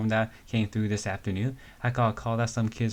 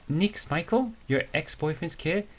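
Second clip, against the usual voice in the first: much higher, disbelieving question; gossip-shocked disbelief; shocked gasp; 8 semitones higher than usual. Acted. Friend shocked at the reveal.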